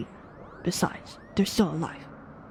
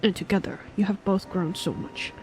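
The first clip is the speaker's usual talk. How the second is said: put-on weary old mentor recalling war; old man voice; 2 semitones lower than usual. Voices old knight master Omp.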